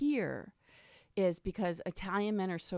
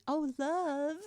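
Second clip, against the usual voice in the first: heartfelt love; 7 semitones higher than usual. Shown as a demonstration. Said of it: "it's not like I'm going".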